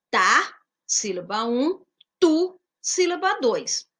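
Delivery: slow, syllable by syllable, "ta... tu"; syllables spelled out. Shown as a demonstration. Teacher splitting a word into syllables for pupils, slow and clear. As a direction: split "tatu" into its two syllables for the class. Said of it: "Leia atentamente a palavra tatu".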